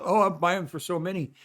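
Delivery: a touch of mock dismay at the long list; mock overwhelmed shopper. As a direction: play the frazzled gift buyer, not too hard. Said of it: "I don't mean think about".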